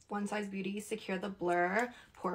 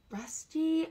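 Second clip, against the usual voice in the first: incredulous; 7 semitones higher, 3 dB louder than usual. Real, not acted. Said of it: "I can't say that".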